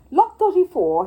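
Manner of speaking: loud auction call; booming lot announcement; auctioneer shouting. Acted. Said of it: "he shouted".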